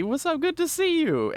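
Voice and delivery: high, bright friendly greeting; cheerful high greeting. Acted. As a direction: greet him like a bubbly character. Greeting Moki in character.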